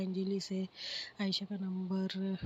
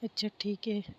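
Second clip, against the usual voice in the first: deflated, trailing into a whisper; a bit sad. Acted. Friend disappointed on the phone, mildly sad whispering. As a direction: let the disappointment sink to a whisper. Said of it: "Shivani थोड़ी सी sad होती है".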